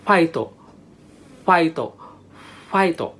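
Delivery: "fighto" ending in a short "o"; Japanese pronunciation. Shown as a demonstration. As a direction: show "fighto" as Japanese say it, one at a time. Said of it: "they pronounce it like".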